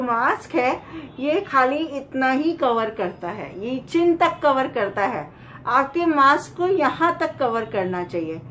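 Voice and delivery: muffled behind cloth; covered mouth speech; through a face mask. Real, not acted. Seen 1: Cloth mask worn over mouth and nose while speaking; removed by 8.2.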